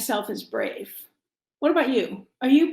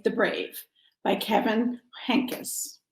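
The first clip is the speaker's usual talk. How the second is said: playful whisper; 3 semitones lower, 7 dB quieter, slower than usual. Pretend. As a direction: whisper the rest of the title, slow and secret. Whispering the book title.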